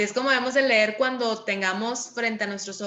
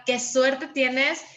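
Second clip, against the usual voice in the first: slow, rising on suerte; amazed intonation; 2 semitones higher, much slower than usual. Shown as a demonstration. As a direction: sound astonished at their luck. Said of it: "por su entonación es una expresión de asombro". (entonación de asombro, lenta)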